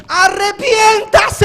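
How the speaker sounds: alto y fuerte, voz quebrada; clamor con llanto. Real, not acted. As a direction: clama con llanto por el arrepentimiento. Clamor de llamado al arrepentimiento. (clamor lloroso: Arrepiéntase)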